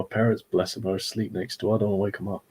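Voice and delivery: hushed so parents sleep; quiet at night. Real, not acted. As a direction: keep it down, family asleep. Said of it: "I'm trying to be quiet because".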